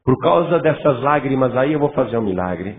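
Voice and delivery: mock pity. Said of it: "Deus não vai ficar com pena".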